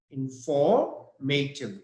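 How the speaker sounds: slow "informative", in-FOR-mative; stress on FOR. Shown as a demonstration. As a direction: draw out "informative", leaning on FOR. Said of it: "Here is the stress".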